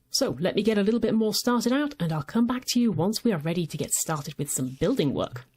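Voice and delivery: ordinary delivery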